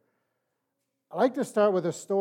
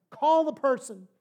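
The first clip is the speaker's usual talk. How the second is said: inner voice urging; 9 semitones higher, 4 dB louder than usual. Acted.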